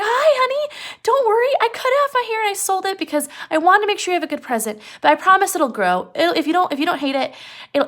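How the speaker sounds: put-on bubbly high-pitched young wife reassuring her husband; young wife, excited. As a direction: gush at him with a high, eager young wife's voice. Wife voiced in retold story.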